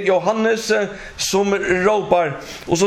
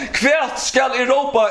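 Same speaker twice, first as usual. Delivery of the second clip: calling out; 3 semitones higher than usual. Acted. Preacher calls out the cry.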